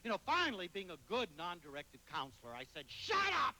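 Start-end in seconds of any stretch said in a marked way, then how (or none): 2.9-3.5 sudden high, loud outburst; a sharp, loud shut up; retold shout. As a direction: bark it at him, fed up. Snapping at the self-centred kid.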